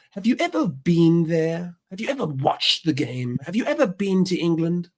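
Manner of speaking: lightly mimicked English football fan; mock the fan's repeated challenge. English fans challenging an American critic, lightly mimicked and mocking. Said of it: "their response is simply".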